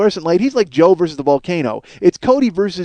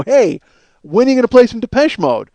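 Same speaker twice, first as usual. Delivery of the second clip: a touch of smug bully in the voice; 4 semitones higher than usual. Retold or imitated. Caller sneering at the radio DJ, mildly mocking. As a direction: needle the DJ like you own him. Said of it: "he probably had that tone in his voice".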